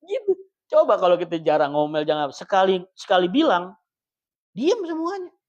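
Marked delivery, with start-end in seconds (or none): 4.5-5.3 stern command. Retold or imitated. Husband finally silencing the house.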